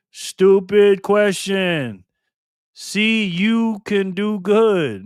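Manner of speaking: slow, drawn-out teasing; mock teasing. Real, not acted. Host teases a chatter, slow and drawn out. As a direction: stretch the words to tease.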